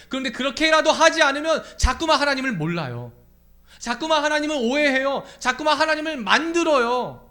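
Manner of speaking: high, loud, insistent sermon; impassioned preacher at full voice; full-force preaching. Real, not acted. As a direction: drive each phrase home loudly.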